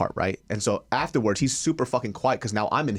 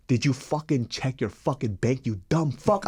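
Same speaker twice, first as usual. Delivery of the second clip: slow, seething retold outburst; imitating yourself losing your temper; retold angry yell; 2 semitones higher than usual. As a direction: hammer each word out slowly, mildly raised. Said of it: "I'm, like, screaming at him".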